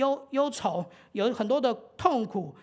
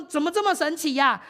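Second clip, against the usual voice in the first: excited; 4 semitones higher, 3 dB louder than usual. Retold or imitated. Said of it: "他就很兴奋说".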